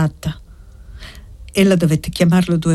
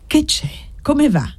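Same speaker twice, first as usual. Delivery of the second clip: put-on high, raised call to the sick old man; 9 semitones higher than usual. A narrator's reading. Servant bent over the bed calls to the old man, raised high. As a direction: call out to him, pitched up. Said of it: "gridò poi piegandosi sul letto".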